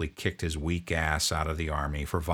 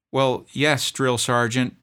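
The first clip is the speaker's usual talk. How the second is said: put-on much higher, strained young voice; pleading private; 7 semitones higher, 7 dB louder, slower than usual. Homesick private begging his drill sergeant, high plea. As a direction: plead like a scared recruit.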